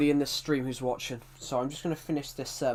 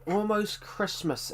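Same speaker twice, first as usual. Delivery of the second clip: slow singsong; 7 semitones higher, slower than usual. Pretend. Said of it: "repeats greeting drawn out".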